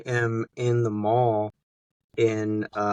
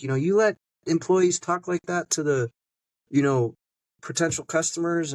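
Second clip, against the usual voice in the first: irritated tone; 6 semitones higher than usual. Retold or imitated. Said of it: "in kind of an irritated tone".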